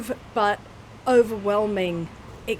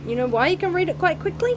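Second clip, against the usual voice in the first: higher and fast, rising on "quickly"; teasing rhetorical question; 8 semitones higher, faster than usual. Real, not acted. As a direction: toss the question up at them quickly.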